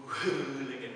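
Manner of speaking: put-on playful Scottish accent on pulling. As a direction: say it in a jokey Scottish brogue. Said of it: "That's my Scottish accent".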